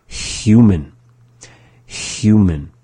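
HUMAN with a clear hissy H at the start; initial sound shown. Shown as a demonstration. Teacher showing a sound like English human, clear initial H. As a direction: model HUMAN slowly, letting the first H be heard. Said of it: "the initial sound in the word".

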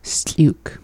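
unvoiced whisper of Skliuk; whispered single word. Shown as a demonstration. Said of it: "having that next word skliuk".

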